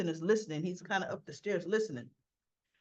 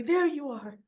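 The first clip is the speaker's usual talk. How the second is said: called out; 6 semitones higher, 5 dB louder than usual. Retold or imitated. Olivia bursting in on Sonny.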